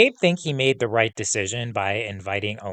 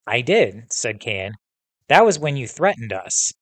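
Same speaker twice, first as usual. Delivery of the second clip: reading a novel aloud to the class; storytelling read-aloud with voiced dialogue; story narration; 2 semitones higher than usual. A narrator's reading. Teacher reading the confrontation scene to students, narration.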